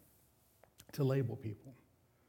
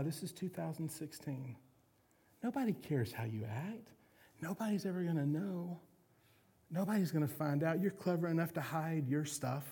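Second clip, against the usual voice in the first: tempting inner voice; 3 semitones higher than usual. Acted. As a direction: coax him gently, a sly little voice in his ear. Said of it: "This little voice will come and say".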